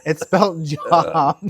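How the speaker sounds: "job" drawn out with a short vowel; spelling pronunciation. Shown as a demonstration. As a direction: stretch "job" slowly so it rhymes with "rob". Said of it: "why don't they pronounce it job".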